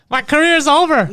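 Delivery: high, loud hammed-up wail; mock panic. Joking as a terrified rapper.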